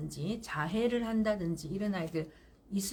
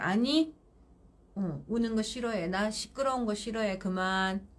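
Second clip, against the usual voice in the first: firm, no emotion. Shown as a demonstration. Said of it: "단호해야 돼요".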